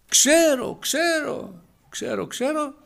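thin high-pitched repeated "I know"; possessed girl voice. Acted. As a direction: squeal it out like the possessed slave girl. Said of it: "Ήξερε και αυτή η κοπελίτσα".

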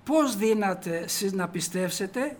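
solemn slow reading of the verse; slow scripture reading. Shown as a demonstration. Preacher reads the verse to the congregation, slow and solemn. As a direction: read the verse out slowly, rising at the end. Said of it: "το διαβάζουμε".

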